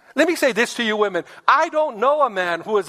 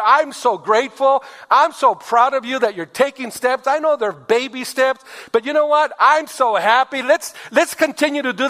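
higher, gushing praise for a husband's small try; loving praise; 3 semitones higher than usual. Shown as a demonstration. Pastor voicing a wife praising her husband, gushing and higher. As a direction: lift him up with sweet praise. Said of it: "The wife should have said".

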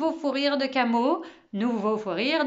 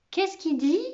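higher-pitched, voiced query; puzzled question; 6 semitones higher than usual. A narrator's reading. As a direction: ask aloud, baffled. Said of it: "demanda Camo". (question perplexe à voix haute)

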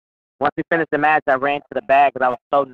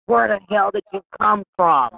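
slow, high astonished question; amazed boss; 8 semitones higher than usual. Retold or imitated. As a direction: retell the boss stunned by her, drawn out and high. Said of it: "he's like".

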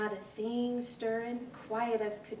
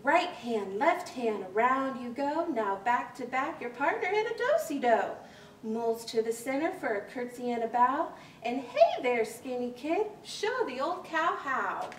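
square dance call. Acted. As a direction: call the steps over the fiddle.

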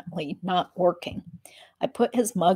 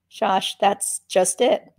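sadly; slower than usual. Acted. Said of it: "I said sadly".

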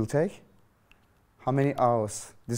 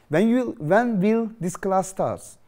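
higher, slower question; raised question voice; 5 semitones higher, slower than usual. Shown as a demonstration. Teacher acts the asker for the class, higher and slow. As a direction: ask it slowly, raised up.

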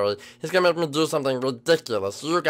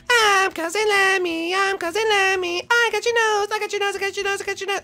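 ecstatic Lemmy. Acted. Lemmy greets his cousin in a high manic squeal. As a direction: bounce off the walls with giddy glee.

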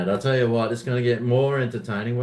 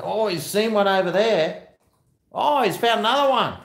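excited; 9 semitones higher, 5 dB louder than usual. Real, not acted. Cheering the dog on.

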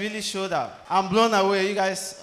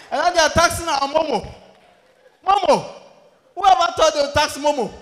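1 outraged rant; 9 semitones higher, 8 dB louder than usual. Real, not acted. Comic rants about Momo tax.

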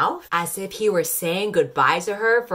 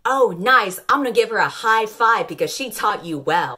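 louder, higher gushing; mock cheerful; 4 semitones higher, 4 dB louder than usual. Vlogger imagining praising him, hammed-up delight. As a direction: gush like it's great news. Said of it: "I wouldn't be like".

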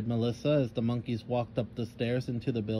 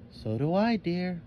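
higher-pitched, gentle agreement; soft; 5 semitones higher than usual. A narrator's reading. Mother softly agrees with her daughter. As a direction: agree gently, trailing softer. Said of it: "Kim added softly".

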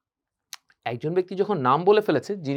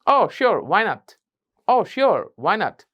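happy; 2 semitones higher, much slower than usual. Shown as a demonstration. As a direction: answer gladly. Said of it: "আমার সাথে বলেন দেখি". (খুশি হয়ে উত্তর)

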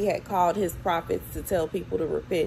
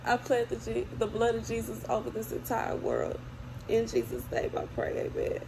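quiet amen; 4 semitones higher, 6 dB quieter than usual. Real, not acted. Closing quiet prayer.

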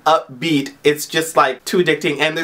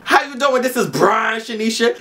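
high sassy mock girl voice, pitched way up; imitating Brian as a sassy woman; 7 semitones higher than usual. Vlogger imagining friend Brian, sassy high mock woman voice. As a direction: camp it up as a diva introducing herself. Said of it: "I could just picture him saying".

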